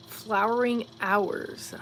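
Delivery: slow, puzzled repeat of the phrase; puzzled slow reread. Real, not acted. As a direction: draw out "Flowering hours" as if tasting the words. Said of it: "I don't know what that means".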